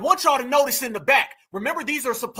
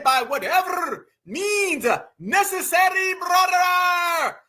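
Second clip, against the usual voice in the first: higher, drawn-out mock Latino accent; 5 semitones higher, much slower than usual. Commentator mocking a rally speaker's Malcolm X quote, mock Latino accent. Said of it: "was that Taco X?".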